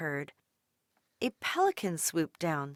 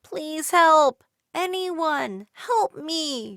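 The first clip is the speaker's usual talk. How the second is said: much higher and louder cry; bellowing for help; 9 semitones higher, 8 dB louder, much slower than usual. A narrator's reading. Dolores bellowing to the crowd, higher and louder. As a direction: call to the whole crowd. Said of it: "she bellowed out loud".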